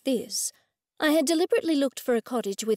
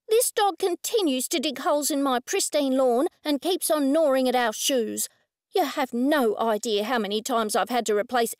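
demanding rude woman; 3 semitones higher than usual. Acted.

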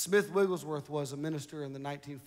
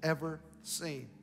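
prophecy read aloud; 3 semitones higher, 4 dB louder than usual. Real, not acted. Reads out prophecy to congregation.

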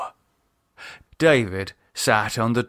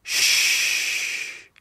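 soft unvoiced soothing shush; 3 dB quieter than usual. Lisa hushing crying David, soft and soothing. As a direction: hush him gently. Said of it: "she soothed him".

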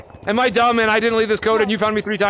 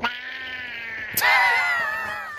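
put-on demonic kid scream; 7 dB quieter than usual. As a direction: perform a demonic kid's scream on request. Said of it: "demonic kid scream voice. Do it".

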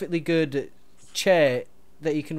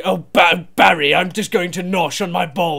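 mock silly voice; 8 dB louder than usual. Mocking imitation between partners.

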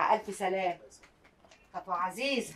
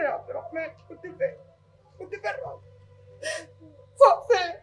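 higher, crying and laughing while scolding; tearful scolding; 4 semitones higher than usual. Acted. Mother crying over her found son, tearful reproach. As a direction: sob out the reproach to the boy.

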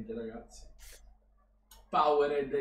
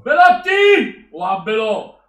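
a long, slow, much higher and louder yell of the name; drawn-out shout; 7 semitones higher, 17 dB louder, much slower than usual. Real, not acted. Fan on stream bellowing the striker's name in hope. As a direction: call the striker's name as if he can hear you.

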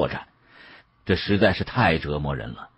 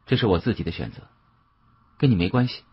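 cool and detached; 4 dB quieter, faster than usual. Acted. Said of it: "依然淡淡地说道".

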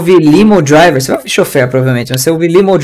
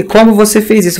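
imitating teacher; 5 semitones higher than usual. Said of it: "Ela falou isso aqui".

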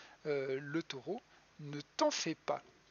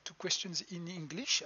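English read with a thick French accent; terrible English accent. Real, not acted. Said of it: "mon accent anglais est absolument terrible".

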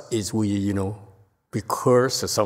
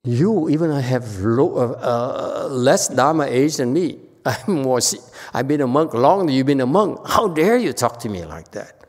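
upset; 3 semitones higher, 3 dB louder than usual. Retold or imitated. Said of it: "she was so upset".

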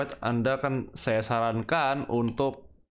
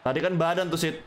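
excited yelling; 6 semitones higher than usual. Real, not acted. Yelling at teammate over a foul.

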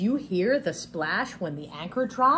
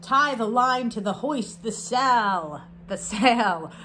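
pirate voice. Acted. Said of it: "I was trying to use a pirate voice".

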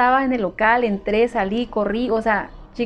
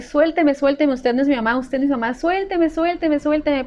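higher mock yell at the stranger; retold yell; 3 semitones higher than usual. Lost girl pulling away from a stranger, high mock yell. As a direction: push her off, voice pitched up. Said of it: "empecé a gritarle".

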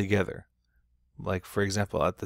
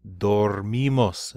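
"Dormimos" slowly, with the weight on "mi"; stress off the O; 3 dB louder, much slower than usual. Shown as a demonstration. Teacher showing no stem change, stress on the "mi" of "Dormimos". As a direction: keep "Dor" light and stretch the "mi" in "Dormimos". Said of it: "the O is no longer stressed".

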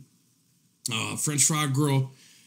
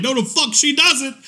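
high, loud, laughing through the line; laughing mock Kristen; 10 semitones higher, 4 dB louder than usual. Kristen quoted as denying it, laughing hard. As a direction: cackle it out as Kristen. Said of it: "Kristen's like".

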